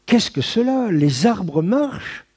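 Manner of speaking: high, slow, wide-eyed amazement; a small boy marvelling that the trees move; astonished child's cry. A narrator's reading. Boy on the boat asks his mother about moving trees, high astonished cry. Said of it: "m'écriai-je".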